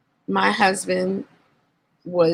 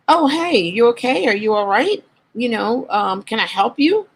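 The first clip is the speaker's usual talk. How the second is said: friendly stranger; 5 semitones higher than usual. Retold or imitated. Stranger voiced offering help.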